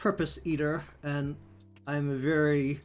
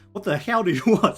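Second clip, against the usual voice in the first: higher, louder, laughing in disbelief; exasperated outburst; 5 semitones higher, 8 dB louder than usual. Retold or imitated. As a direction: throw up your hands at the stubborn machine. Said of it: "It's like".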